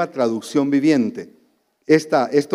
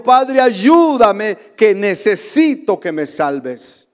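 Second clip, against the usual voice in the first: pleading prayer; 4 semitones higher, slower than usual. Acted. People crying out to God.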